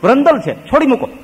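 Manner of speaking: loud, high preaching scorn; forceful dismissal. Acted. Preacher to congregation, loud scornful dismissal. Maharaj rejects the useless one.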